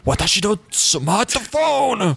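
slow, high, shaky wail; panicked wail. Retold or imitated. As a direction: wail it out, trembling. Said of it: "starts shaking and goes".

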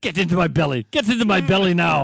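loud, high Scottish growl of a hungry giant; Scottish monster voice. Retold or imitated. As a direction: bellow it like a Scottish ogre. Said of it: "Oh, cry yourself to sleep".

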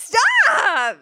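high, loud laughing stop; laughing protest. Real, not acted. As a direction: plead through laughter to stop. Laughing at teasing.

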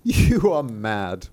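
slow, loud, drawn-out dismissal; scornful pastor. Acted. Pastor replies to the maid, slowly scornful. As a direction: stretch it out in pronouncing judgement.

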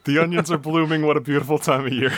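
lightly put-on American reporter voice; a hint of a field reporter on location; American reporter in Australia. Joking host reports on blooming onions in Australia, mock American reporter. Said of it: "sounds like an American reporting in Australia".

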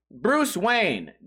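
ordinary talk

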